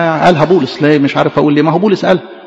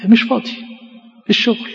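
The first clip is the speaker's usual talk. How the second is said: mumbled excuse; 6 semitones higher, 4 dB quieter than usual. Acted. Excuse maker voiced softly.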